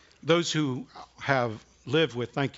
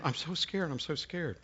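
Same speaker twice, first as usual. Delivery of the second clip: put-on scared child; 3 semitones higher, 6 dB quieter than usual. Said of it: "she kept saying".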